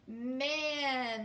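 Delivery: Man, the final N held long. Shown as a demonstration. Teacher to students, stretching the final N. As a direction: draw out the N at the end of Man. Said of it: "hold the N long".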